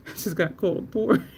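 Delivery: quoting through suppressed laughter; trying not to laugh. Real, not acted. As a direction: voice giving out into a laugh. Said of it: "trying not to laugh".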